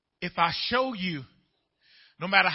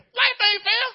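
loud shouted sermon, slower at the peaks; full-force preaching; 8 semitones higher, 10 dB louder than usual. Acted. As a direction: preach it to the back of the church.

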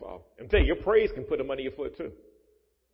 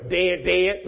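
laughing answer; 3 semitones higher, 5 dB louder than usual. Retold or imitated. Pastor answers own question.

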